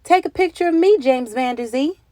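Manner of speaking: high, loud, eager call; eager townspeople. Acted. Townspeople begging James for a photo, high and loud. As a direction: call out asking for your picture. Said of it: "people from all over town were saying".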